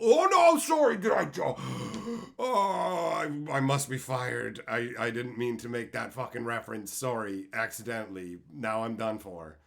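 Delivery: hammed-up fired-worker panic; mocking panicked employee. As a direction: fake fearful apology. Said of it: "where does this go on the totem pole".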